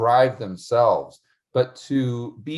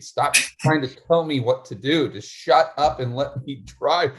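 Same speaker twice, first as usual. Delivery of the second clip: frustrated rant, short of a scream; mock exasperated yelling; 3 semitones higher than usual. Driver telling the nagging car off, mock exasperated. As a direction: plead crossly, mildly raised voice. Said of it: "I just wanna start screaming".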